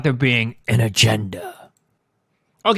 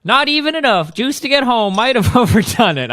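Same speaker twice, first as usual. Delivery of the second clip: high, bad English accent cracking into a laugh; hammed-up pitched-up English accent; 8 semitones higher, 4 dB louder than usual. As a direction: attempt a British heroine and lose it. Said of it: "I can't do this accent".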